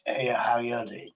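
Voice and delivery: put-on slow lightly posh English accent; a hint of posh Queen accent. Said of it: "mimic a posh voice".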